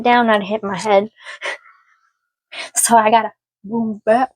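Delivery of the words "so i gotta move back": muttered under the breath; a hushed aside to herself; whispered aside. Real, not acted. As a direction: whisper it to yourself while rearranging. Aside while moving chair.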